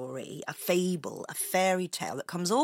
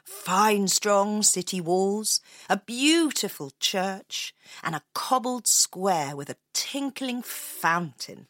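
measured storyteller's narration; story narration. A narrator's reading. Opening the tale of Hamelin for Leo, storytelling voice. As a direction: set the scene, savouring each phrase.

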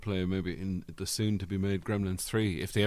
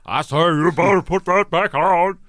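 loud, higher, slow cartoon rooster drawl; Foghorn Leghorn voice; 8 semitones higher, 10 dB louder than usual. Friend mocks the Hogan impression as Foghorn Leghorn, loud. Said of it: "Foghorn Leghorn doing an impression of Hulk Hogan".

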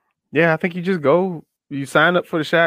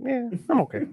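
mock casual reassurance; 7 semitones higher, 7 dB quieter than usual. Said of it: "I was like".

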